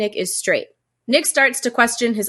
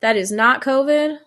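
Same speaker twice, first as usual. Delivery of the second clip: head cold. Real, not acted. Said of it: "I am experiencing a bit of a head cold".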